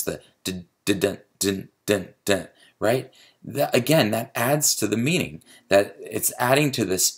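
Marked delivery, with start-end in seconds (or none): 0.0-2.5 short separate "dun, dun, dun" beats; abrupt beat demo. Shown as a demonstration. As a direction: tap out each "dun" as its own abrupt stroke. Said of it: "you hear that abruptness".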